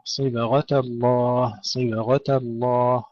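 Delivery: slow "صبغة الله", thick ghayn then thin ta; heavy ghayn, light ta. Shown as a demonstration. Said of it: "الغين مفخمة جيدا والتاء مرققة".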